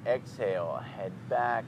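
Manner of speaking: measured yoga breathing voice; guided breathing. Shown as a demonstration. Leads a breathing exercise.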